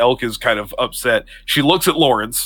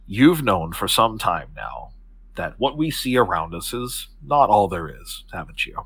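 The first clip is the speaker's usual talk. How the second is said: serious but warm; 4 dB quieter than usual. Acted. Octavia tells Elk of what lies beyond, serious but warm. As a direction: draw him in gently, with measured pauses. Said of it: "she's serious, but she's smiling. There's a warmth".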